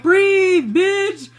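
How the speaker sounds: high mock yoga instructor call; mock instructor yelling breathe at the class; mimicking coaches. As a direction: imitate them shouting breathe, way up high. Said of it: "now they're like".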